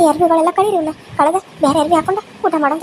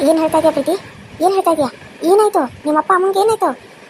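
a gruff aunt surprised at the door. Acted. Aunt voice again. (ಗಡಸು ಧ್ವನಿಯ ಅತ್ತೆ)

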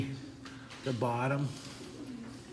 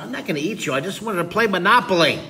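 lightly voiced shark, pitched higher; protesting shark; 5 semitones higher, 4 dB louder, faster than usual. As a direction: plead innocence as a shark, quickening at the end. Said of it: "the shark's going".

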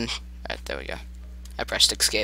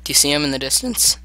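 voice crack; 2 semitones higher than usual. Real, not acted. Player asking about the monster, voice crack. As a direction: voice cracking upward at the end. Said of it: "Voice crack".

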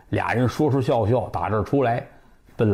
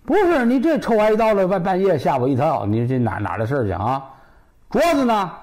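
high-pitched wifely telling-off; indignant outburst; 7 semitones higher than usual. Acted. Wife demands her stolen bracelet, high indignant outburst. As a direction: burst in high, then demand it back. Wife snaps back in quarrel.

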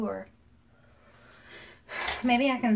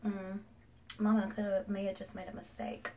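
whistling nose; 7 dB quieter than usual. Real, not acted. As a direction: air whistling through the nose. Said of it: "My nose is whistling".

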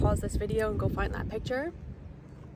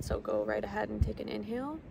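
guided breathing cues; 5 dB quieter than usual. Acted. Meditation guide counting the listeners through box breathing, calmly. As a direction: count the breaths calmly, leaving long silences between cues.

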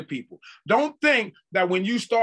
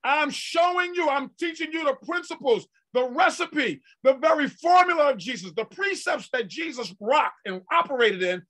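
voice of God; 7 semitones higher than usual. Acted. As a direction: proclaim as God himself. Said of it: "God says".

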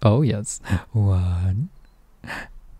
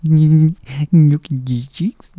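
laughing coo; 4 semitones higher, 8 dB louder, much slower than usual. Real, not acted. Cooing over cheeks, laughing.

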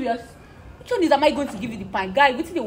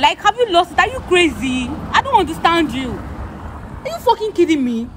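angry; 4 semitones higher than usual. Real, not acted. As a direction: voice rising in angry disbelief. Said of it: "you're getting me angry".

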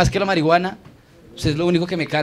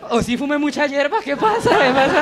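confused stoned audience member; 6 semitones higher than usual. Retold or imitated. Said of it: "Veo caras así como".

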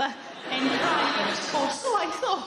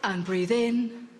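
low, slow soothing breathing instructions; mock therapist; 7 semitones lower, 5 dB quieter, slower than usual. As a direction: imitate a therapist coaching breath. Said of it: "They go".

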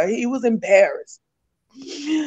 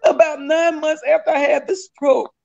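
higher, teary voice; tearful; 4 semitones higher than usual. Real, not acted. Telling the church her husband left, tearful. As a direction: push the words through tears.

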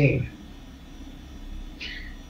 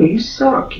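high loud jeer; loud high taunt; 4 dB louder than usual. Real, not acted. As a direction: throw it at him, high and loud. Repeated taunt.

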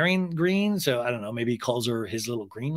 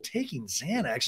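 soft, slow imitated mutter; quiet mock disbelief to oneself; muttering to himself; 7 dB quieter, slower than usual. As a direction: grumble it under your breath, acted. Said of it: "Andy mutters to himself".

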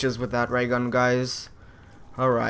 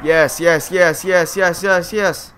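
excited yes; 4 semitones higher, 5 dB louder, slower than usual. Real, not acted. Celebrating the nuke.

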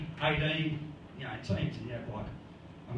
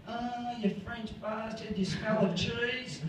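mock yell; 5 semitones higher, slower than usual. Someone yelling playful insults at the French, mock yell. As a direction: pretend to yell abuse, dragging it out. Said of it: "you yell at things like".

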